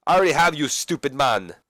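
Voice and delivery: acted brash foreign-wrestler retort; scornful retort. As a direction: snap back with mock contempt. Rusev's rude retort, voiced.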